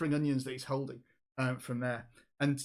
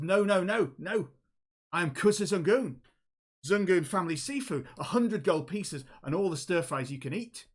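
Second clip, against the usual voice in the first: emphatic, higher-pitched objection; rival butting in; 4 semitones higher than usual. Acted. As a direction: cut in to outbid a competitor. Kobold interrupts with a rival offer.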